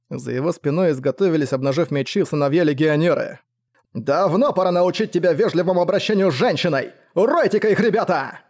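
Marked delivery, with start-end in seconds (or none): 3.9-8.4 higher-pitched battle cry; rally them with a raised, outraged voice; indignant yell. A narrator's reading. Father orders his sons to attack, yelling. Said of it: "завопил Уорнер".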